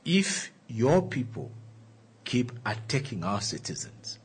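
put-on light Nigerian accent; a hint of a Nigerian accent. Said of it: "trying to get that, that, uh, Nigerian accent".

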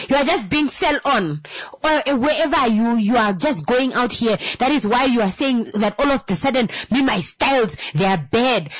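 mock complaining partner. Acted partner complaint continues.

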